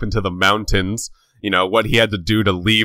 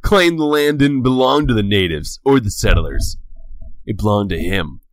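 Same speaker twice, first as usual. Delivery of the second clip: villain voice. Shown as a demonstration. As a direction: growl it like a western villain. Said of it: "I wanted to do the voice once more".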